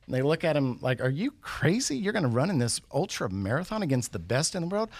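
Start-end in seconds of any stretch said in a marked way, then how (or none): 1.0-4.9 raised-pitch, disbelieving question; mock incredulous. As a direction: act out mild astonished disbelief. Officials challenge the old man.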